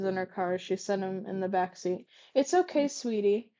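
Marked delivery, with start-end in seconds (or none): 2.3-3.5 reassuring. Acted. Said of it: "she reassured".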